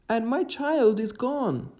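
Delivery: high, slow grieving cry; distraught parent. Acted. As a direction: wail the loss of a child. Villager's child taken by demons.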